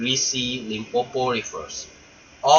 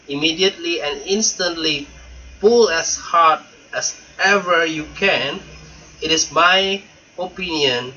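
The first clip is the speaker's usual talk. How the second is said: python rock snake. Acted. Python warns the elephant child.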